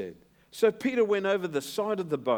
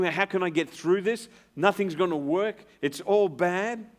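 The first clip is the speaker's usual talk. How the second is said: mock despair; 5 semitones higher, 5 dB louder than usual. Preacher voices a doubter's despair.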